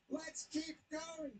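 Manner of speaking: slow hammed-up shout; mock runners shouting. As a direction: yell it like runners waving each other home. Runners voiced, repeated louder.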